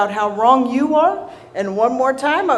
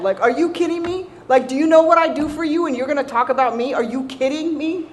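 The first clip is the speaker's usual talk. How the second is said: indignant; 4 semitones higher than usual. Retold or imitated. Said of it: "And I'm mad".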